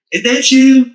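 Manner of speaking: very high-pitched mock question; incredulous questioning. Retelling a text to a suspected friend, high incredulous question. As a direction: squeak it out, imitating disbelief. Quoting own question to a texter.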